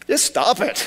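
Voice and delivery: laughing through the words. Real, not acted. Pastor repeats it laughing.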